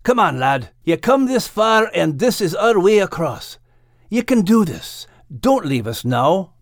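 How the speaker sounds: pleading. Acted. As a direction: urge a friend not to give up. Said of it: "pleaded Max".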